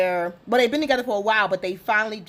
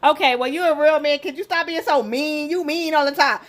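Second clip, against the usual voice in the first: mock complaint to husband; 4 semitones higher, 4 dB louder than usual. Teasing husband, louder.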